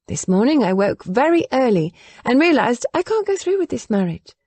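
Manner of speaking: put-on earnest and stubborn young woman; young woman, determined. Willa speaks again.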